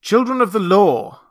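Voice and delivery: loud, high proclamation; commanding call to the assembly. Acted. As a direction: address the crowd with a lifted voice. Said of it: "lifted up my voice".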